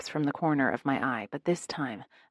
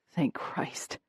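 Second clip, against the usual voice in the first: a soft unvoiced sigh of relief; relieved, breathy; 3 semitones lower, 5 dB quieter than usual. A narrator's reading. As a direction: let the tension out with the words. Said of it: "releasing a huge sigh of relief".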